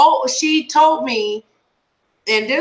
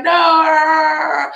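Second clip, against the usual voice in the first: drawn-out mock wail, raised in pitch; imitated wail; 4 semitones higher, 3 dB louder than usual. Imitating a distressed friend who won't listen, mock wail. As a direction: stretch it into a whiny howl. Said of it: "and you were like".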